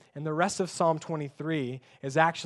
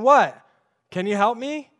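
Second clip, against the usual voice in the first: higher, louder mock whine of a crying toddler; imitating crying toddler; 5 semitones higher, 6 dB louder than usual. Preacher mimics his crying son asking for help, mock whine. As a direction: play the tearful toddler asking for help, hammed-up. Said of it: "he starts crying and saying".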